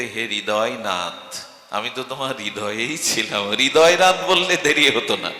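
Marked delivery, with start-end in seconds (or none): 0.0-3.5 soft devotion. Acted. The ideal call, softly.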